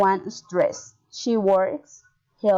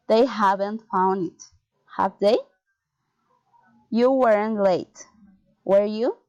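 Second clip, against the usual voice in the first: statement first, then the tag lifted, as on "do you"; falling or rising intonation. Shown as a demonstration. Teacher models tag questions, rising on tags like "shall I". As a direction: raise the closing tag, "have they", "were you". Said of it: "falling or rising intonation".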